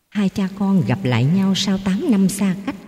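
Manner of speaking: ordinary delivery, nothing marked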